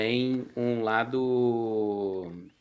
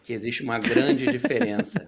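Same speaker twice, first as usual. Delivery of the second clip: much higher, louder teasing line; teasing reveal; 11 semitones higher, 4 dB louder than usual. Acted. Student teasing the teacher with a big reveal, high and playful. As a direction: dangle the big news playfully.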